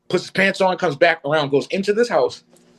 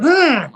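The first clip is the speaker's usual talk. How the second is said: retold growl; 11 semitones higher, 5 dB louder than usual. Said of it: "growled back at him".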